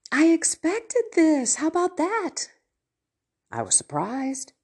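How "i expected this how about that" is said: amused stepson. Retold or imitated. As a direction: play up the irony of seeing it coming. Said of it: "And so he said".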